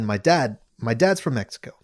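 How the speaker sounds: high, put-on Liverpool lilt; British accent. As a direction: lay on a British accent for the backstory. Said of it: "in a British accent the whole way".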